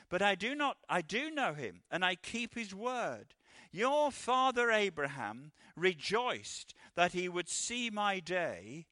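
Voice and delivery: measured, earnest Bible reading; scripture reading. Acted. Preacher reads Scripture to the church in a solemn reading voice. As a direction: read the passage to the congregation. Reads John chapter eight aloud.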